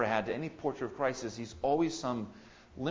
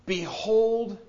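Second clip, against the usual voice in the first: loud proclamation; 8 semitones higher, 7 dB louder than usual. Acted. Proclaims again.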